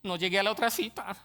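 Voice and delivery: usual speaking voice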